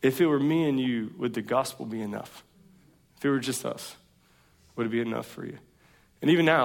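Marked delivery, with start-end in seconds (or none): 0.0-5.6 sweet, gentle voice. Retold or imitated. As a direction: speak it gently, like a loving whisper from God. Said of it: "sweetly said to me".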